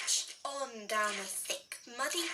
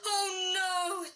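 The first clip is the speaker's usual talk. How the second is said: higher, louder gasp of dread; hammed-up fearful dad; alarmed cry; 5 semitones higher, 3 dB louder than usual. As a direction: blurt it in alarm. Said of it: "Daddy cried".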